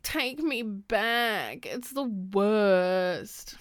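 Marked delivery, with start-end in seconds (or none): 0.0-1.6 slow, dragged-out caption read; mock wistful caption. Mocking the caption again, slow and dragged. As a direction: stretch it out wistfully. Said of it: "I hate".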